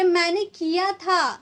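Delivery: slow मैंने किया था with मैंने stressed; emphatic मैंने; forceful emphasis. Shown as a demonstration. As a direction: insist you did it. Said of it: "अब force देकर बोले".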